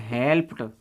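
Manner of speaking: "हेल्प्ड" ending on a T sound, help-t. Shown as a demonstration. Teacher models past forms for learners, "हेल्प्ड" with T ending. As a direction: finish "हेल्प्ड" with T instead of D. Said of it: "टे हो जाती है".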